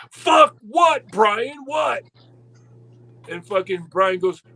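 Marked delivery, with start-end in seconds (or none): 0.1-2.0 higher, louder fed-up boss snapping; exasperated snap. Retold or imitated. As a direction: snap back at the pestering guy, higher and louder. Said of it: "finally, Ole goes".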